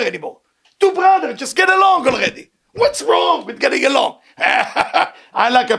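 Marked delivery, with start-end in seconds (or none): 0.8-4.2 pleading shout. Acted. Preacher pleading with feuding brothers.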